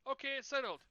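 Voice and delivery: hammed-up cartoon dad settling it; mock announcement. Dad voiced in retold cartoon.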